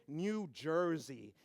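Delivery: New Jersey drawn out slowly in mock awe; mock exotic. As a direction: stretch it like paradise. Naming far exotic places.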